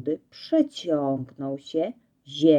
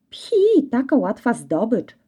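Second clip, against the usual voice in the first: dismissive; 5 semitones higher than usual. Acted. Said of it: "wzruszył ramionami Reksio".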